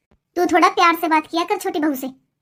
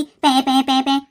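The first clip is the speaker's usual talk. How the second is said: mock baby whining; 5 semitones lower, much slower than usual. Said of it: "सारा दिन तो सोने नहीं देती".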